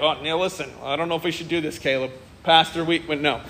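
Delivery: hushed mock protest from nervous church members; nervous congregants. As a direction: back away from the idea, hushed and uneasy. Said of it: "would have been, uh, immediately been like".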